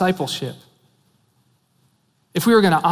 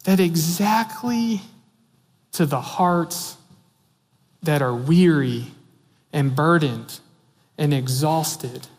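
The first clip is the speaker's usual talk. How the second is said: tender and slow; slower than usual. Real, not acted. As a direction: linger gently on each burden. Preacher slows over weary hearts.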